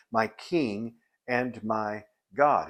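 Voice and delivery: slow phrase with "my" stressed both times. Retold or imitated. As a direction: lean on each "my" before king and God. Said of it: "Now notice he says".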